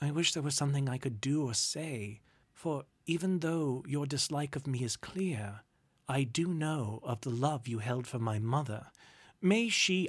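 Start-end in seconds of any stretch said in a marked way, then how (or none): none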